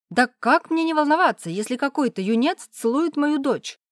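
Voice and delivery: a father beside himself with outrage; outraged father. Acted. Father protests a youngster kissing his daughter, shrill outrage.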